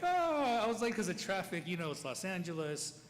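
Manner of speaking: high, quick mock-casual excuse; imitated breezy excuse-making; playing it off. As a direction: brush it off with a loud, drawn "oh". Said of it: "I try to play it off".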